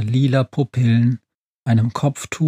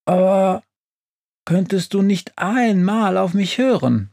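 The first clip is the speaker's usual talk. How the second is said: higher-pitched, mildly indignant stove; increasingly insistent; 8 semitones higher than usual. A narrator's reading. Stove Hubi begging the witch to listen, insistent. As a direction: protest with growing insistence. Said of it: "jetzt langsam immer lauter werdend".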